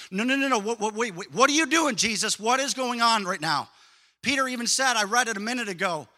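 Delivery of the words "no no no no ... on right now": rising, alarmed protest, louder at the question; aghast disciples. Pretend. Disciples seeing Jesus take the slave's apron, aghast. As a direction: stammer out the shock as he kneels. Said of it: "They'd be like".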